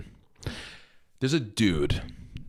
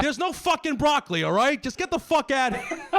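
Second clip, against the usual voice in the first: high-pitched rant through laughter; squeaky mock outrage breaking into laughs; exasperated, cracking up; 12 semitones higher than usual. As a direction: lose it laughing while telling someone off. Punchline, teller cracking up.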